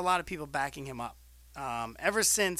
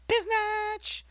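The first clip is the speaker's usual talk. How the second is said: sudden high-pitched squeal; squeaky high biznatch; 5 dB louder than usual. Retold or imitated. Relaying a wrestler's trash talk.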